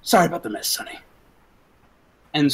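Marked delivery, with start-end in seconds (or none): 0.0-1.0 casual gunman. Acted. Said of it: "and says".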